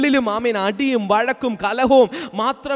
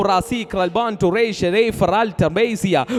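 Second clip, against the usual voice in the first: speaking in tongues; 3 semitones lower than usual. Real, not acted.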